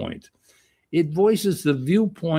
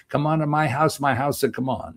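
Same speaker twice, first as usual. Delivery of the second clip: put-on Middle Eastern accent; faster than usual. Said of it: "she's doing it in a Middle Eastern accent".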